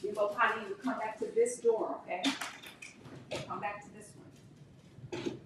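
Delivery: soft, high coaxing to the dog; coaxing pet talk. Real, not acted. Owner coaxing her dog back to the door, softly.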